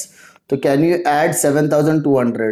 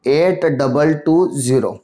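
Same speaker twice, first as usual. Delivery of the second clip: slow, spaced-out repeat of the figure; slow dictation; 2 semitones lower, slower than usual. Real, not acted. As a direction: dictate it slowly, word by word. Repeats figure slowly for writing down.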